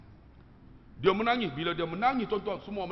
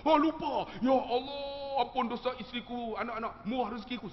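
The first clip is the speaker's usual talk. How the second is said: mock pleading wail; 8 semitones higher than usual. Pak Long praying for wife and children, mock wail. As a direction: wail it, stretching Ya Allah. Re-enacts wailing prayer.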